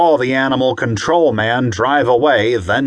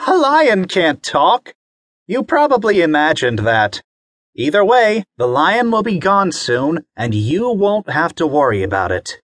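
higher, lightly amused mother; amused mom; 6 semitones higher than usual. Acted. Mommy telling Bobby lions can't talk, higher voice. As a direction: gently dismiss a child's tale. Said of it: "His mommy laughed".

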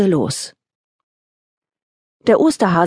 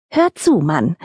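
impatient. Acted. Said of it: "verlor die Häsin die Geduld".

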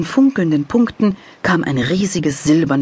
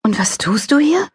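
put-on child voice; 12 semitones higher than usual. A narrator's reading.

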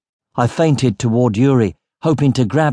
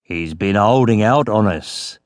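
slightly lowered, purring accusation; near purr; 3 semitones lower than usual. A narrator's reading. Yuri accuses the sleeping captain of holding out, purring. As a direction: purr it to the crew, knowingly. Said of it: "His voice was nearly a purr".

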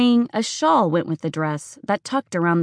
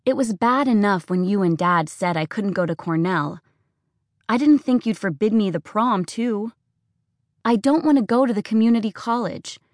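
a hint of a pleading daughter, slightly higher; arguing with mom, hurt but holding back; upset teenage daughter; 3 semitones higher than usual. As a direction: daughter begging her mother to let her go.

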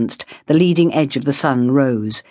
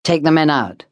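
calm order. A narrator's reading. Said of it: "Davenport ordered calmly".

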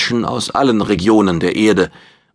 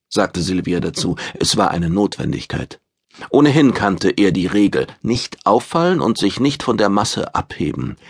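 ordinary delivery

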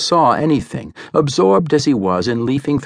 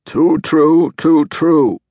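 put-on raised, grumbling old hunchback; muttering old man; 6 semitones higher, 5 dB louder, much slower than usual. A narrator's reading. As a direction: agree like a bitter old man. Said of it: "muttered the aged hunchback".

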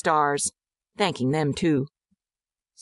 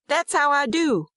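put-on high-pitched boasting little boy; child's voice; 10 semitones higher than usual. A narrator's reading. Servant's son bragging to the girl, childlike. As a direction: pipe up like a small boy. Boy Percy speaks to Martha.

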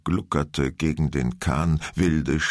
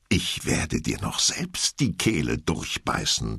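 lower, slow mock threat; threatening; 6 semitones lower than usual. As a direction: growl a playful warning. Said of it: "drohte Lehrer".

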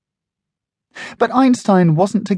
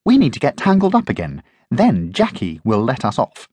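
yapping; 2 semitones higher than usual. Acted. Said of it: "Einstein yapped".

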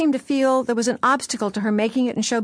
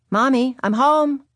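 louder second call, drawn out; 5 semitones higher, 4 dB louder, slower than usual. Retold or imitated. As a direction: call out again into the house. Calling again, no answer.

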